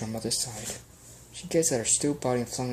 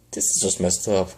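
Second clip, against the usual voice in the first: dismissive villain queen; 4 semitones lower, 6 dB louder than usual. Acted.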